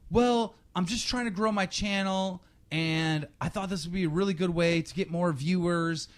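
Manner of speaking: a hint of a whiny kid pleading innocence; mock kid excuse. Host imitating the caught kid's excuse, mildly high and whiny. Kid defends himself on stream.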